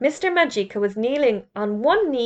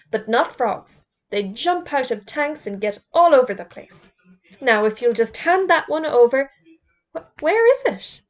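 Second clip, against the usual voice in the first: louder, indignant headmaster lecturing; a prim schoolmaster laying down rules; fussy headmaster; 3 semitones higher, 5 dB louder than usual. Acted. Headmaster Mister Potter scolding.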